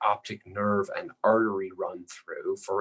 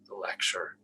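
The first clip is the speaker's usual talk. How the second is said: whisper; 8 dB quieter than usual. Real, not acted. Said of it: "trailing off while drawing".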